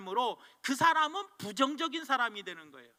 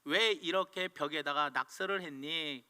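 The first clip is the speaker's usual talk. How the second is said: gentle mother; 6 semitones lower than usual. Retold or imitated. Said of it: "엄마가 와가지고 이야기합니다".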